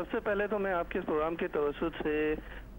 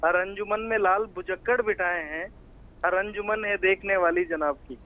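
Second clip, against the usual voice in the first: measured satirical couplet, line by line; verse recitation; 3 dB louder than usual. Acted. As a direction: recite it like a poem at a mushaira.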